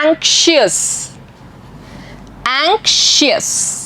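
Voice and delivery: "anxious" with a soft sh sound; teacher softly models "anxious"; clear model reading. Shown as a demonstration. Teacher shows sh sound in "anxious", soft and slow. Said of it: "इसमें भी श sound आ रहा है".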